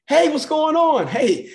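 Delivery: high, loud, bright hello with a grin; cheery greeting. Acted. Greeting people at the gym, high and loud cheerful hello. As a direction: greet a stranger like they made your day.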